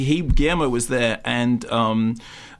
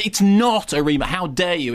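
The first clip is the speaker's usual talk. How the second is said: indignant; 4 semitones higher than usual. Retold or imitated. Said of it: "saying that they were very cross".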